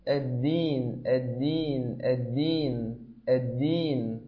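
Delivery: الدين with a true voiced د, not ت; clear dal demo. Shown as a demonstration. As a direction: voice the د in الدين fully. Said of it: "فقل".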